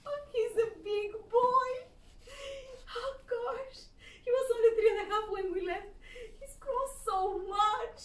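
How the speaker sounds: high, laughing and tearful; mother laughing in disbelief; laughing through tears. Retold or imitated. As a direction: voice her mother's joyful shock. Mother's amazed words, laughing.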